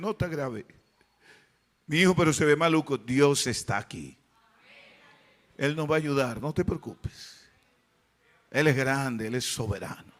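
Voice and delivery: retold soothing words, low and soft; calm reassurance. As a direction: gently settle a worried wife. Husband reassures his worried wife.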